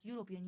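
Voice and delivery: यूरोपियन starting with a y sound; silent E. Shown as a demonstration. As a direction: repeat यूरोपियन as a model, "yoo" first. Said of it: "क्या बोलेंगे".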